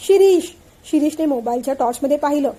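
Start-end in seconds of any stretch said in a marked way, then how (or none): 0.1-0.4 loud frightened scream of his name. A narrator's reading. Wife screaming her husband's name in the dark, terrified. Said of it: "मोठ्याने किंचाळली".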